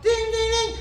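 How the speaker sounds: high chimed ding, then loud mock yell; imitating the alarm and her angry shout; alarm then curse. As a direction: ring the alarm and explode. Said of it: "she'd wake up".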